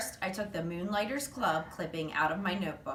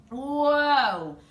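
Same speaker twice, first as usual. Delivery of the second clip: high, loud startled whoa; startled night janitor, loud and high; surprised exclaim; 7 semitones higher, 7 dB louder, much slower than usual. A narrator's reading. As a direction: catch him off guard, loud and high. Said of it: "he exclaimed".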